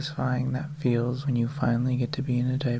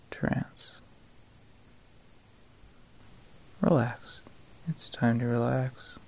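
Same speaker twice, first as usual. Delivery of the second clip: right in your ear; 6 dB quieter, slower than usual. Acted. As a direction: close whispered trance cue. Whispered close to the listener.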